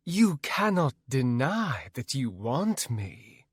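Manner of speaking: slow, smug and self-assured; full of herself. Acted. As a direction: savour it like a vain queen. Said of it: "all full of herself".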